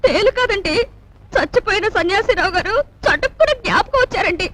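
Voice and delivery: crying while explaining; tearful. Acted. Woman explaining to the household why she weeps, tearful. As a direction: explain it through sobs. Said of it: "ఎందుకు ఏడుస్తున్నావు?".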